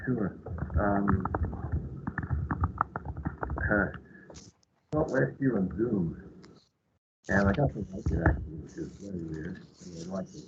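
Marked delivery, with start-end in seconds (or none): 3.9-10.4 muffled behind a mask; through a face mask. Real, not acted. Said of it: "so I'm gonna be speaking behind the mask".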